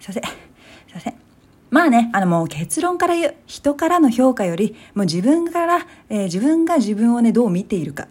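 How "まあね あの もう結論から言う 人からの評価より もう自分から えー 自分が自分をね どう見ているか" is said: emphatic. Real, not acted. Announcing her conclusion loudly.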